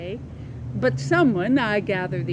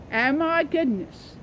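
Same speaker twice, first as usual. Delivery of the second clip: higher, slow startled exclamation; startled gasp; 6 semitones higher than usual. Acted. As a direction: caught off guard by the ring. Startled organist sees the ring.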